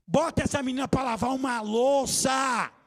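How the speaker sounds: loud, slow command to the parents; emphatic shout. Real, not acted. Preacher shouting at parents to give the girl chores, slow and loud. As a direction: bellow it from the pulpit.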